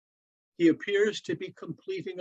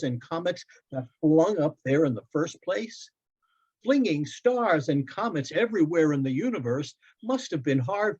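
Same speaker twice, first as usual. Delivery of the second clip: put-on higher, eager boy's voice; young boy Loren; 3 semitones higher than usual. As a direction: play the son, bright and eager. Boy wondering aloud.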